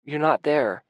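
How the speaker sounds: sobbing to his partner. A narrator's reading. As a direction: sob it out. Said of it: "I sob".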